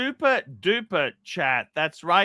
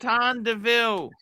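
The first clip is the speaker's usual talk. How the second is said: posh voice; 5 dB quieter than usual. Acted. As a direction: say it as a posh character. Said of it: "That was a posh voice".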